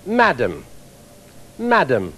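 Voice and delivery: crisp English "Madam, madam" with stress on MA; a proper Englishman saying "Madam"; English accent. Shown as a demonstration. An Englishman addressing a lady, polite English accent. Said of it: "An Englishman addressing a lady would say".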